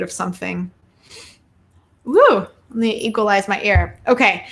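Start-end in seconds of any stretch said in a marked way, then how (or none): 2.0-2.5 short high "woo"; quick whoop of surprise; startled woo. Real, not acted. Reader feeling a buzz in her ear, startled woo.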